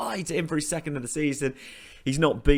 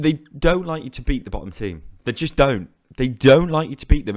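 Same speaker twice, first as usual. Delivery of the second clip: rising rant; 7 dB louder than usual. Real, not acted. Ranting at the game.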